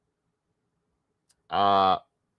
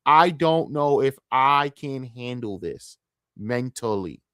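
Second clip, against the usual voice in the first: drained; much slower than usual. Real, not acted. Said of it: "I'm so mentally tapped of this shit".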